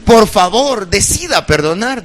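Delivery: earnest plea to the person beside you; heartfelt plea. Shown as a demonstration. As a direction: say it like you truly mean it. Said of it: "pero así, con sentimiento".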